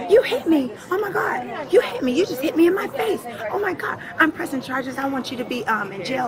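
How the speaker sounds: retelling the passenger's loud, high-pitched outburst in mock panic; mock hysterical accusation. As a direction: ham up the woman yelling that she was hit. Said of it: "She's like".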